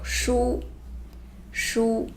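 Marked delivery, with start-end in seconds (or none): 0.0-0.6 书 breathed out in a whisper. Shown as a demonstration. Teacher whispers 书 to students, then says it aloud. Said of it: "which is book".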